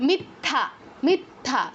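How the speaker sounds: মিথ্যা said with a doubled থ. Shown as a demonstration. Teacher showing the class the doubled থ. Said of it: "double থয়ের মতো উচ্চারণ করছি".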